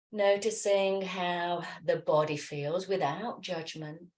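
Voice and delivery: gentle, unhurried meditation voice; guided meditation. Acted. Yoga teacher settling listeners into noticing the body, guided meditation. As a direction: ease them into stillness, leaving long pauses.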